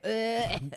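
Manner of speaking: grossed-out gag; mock gag; retold gagging noise. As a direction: choke out a disgusted sound. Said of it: "and I'm like".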